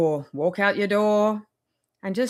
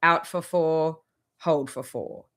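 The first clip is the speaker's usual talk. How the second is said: slow breathing count; 2 semitones lower, slower than usual. Shown as a demonstration. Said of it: "do the box breath".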